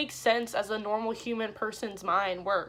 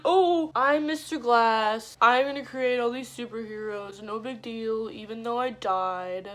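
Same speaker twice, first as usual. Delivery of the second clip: mock villain. Mocking the villain's speech.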